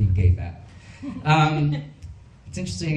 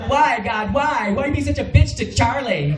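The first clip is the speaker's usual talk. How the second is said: mock melodramatic lament; 10 semitones higher than usual. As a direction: ham up the grief to the heavens. Mock lament over Charlie.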